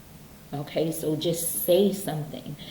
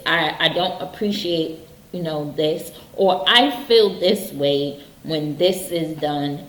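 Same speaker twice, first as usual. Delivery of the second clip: assertive demo; 3 semitones higher, 6 dB louder, slower than usual. Shown as a demonstration. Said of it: "So be like".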